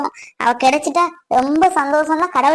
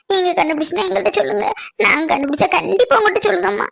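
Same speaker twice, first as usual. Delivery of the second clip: high-pitched, earnest denial; anxious pleading; 4 semitones higher than usual. Acted. Defending her sick sister to an angry mother, pleading. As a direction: plead your sister's innocence.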